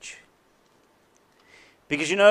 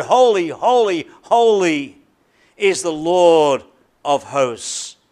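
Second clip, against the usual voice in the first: proclaimed hymn; 3 dB louder, slower than usual. Shown as a demonstration. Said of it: "They sing".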